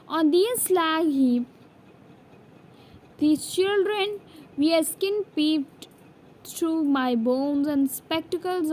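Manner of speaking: measured poem reading, phrase by phrase; poem recitation. A narrator's reading. Teacher reading the poem from the NCERT book, measured recitation. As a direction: read verse aloud with pauses between lines.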